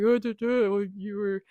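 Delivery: a hint of sarcastic Jack. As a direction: tease her dryly as the sarcastic rescuer. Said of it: "he's very sarcastic".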